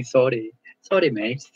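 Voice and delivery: playful Scottish "sorry" with a tapped R; Scottish accent. Shown as a demonstration. Tutor fondly imitating Scots who sound cute saying sorry, Scottish accent. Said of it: "when they say".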